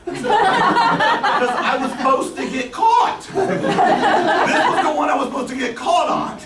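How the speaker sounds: talking through big laughs, slow and high; can barely get the words out for laughing. Real, not acted. Guest laughing at his own heist story to the host. Laughing while telling bank break-in.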